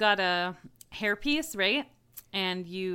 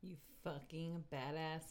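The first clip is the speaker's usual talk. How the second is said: unvoiced, awed whisper; 4 semitones lower, 15 dB quieter than usual. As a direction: breathe it out in mock awe. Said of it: "awed whisper".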